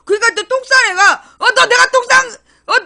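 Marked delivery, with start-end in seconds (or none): 1.4-2.8 high, loud, fast sputtering protest with a laugh; a guilty lawmaker snapping at the asker; irritable shout. Retold or imitated. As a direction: splutter in mock outrage. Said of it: "그래서 막 신경질 내고 있는 거야".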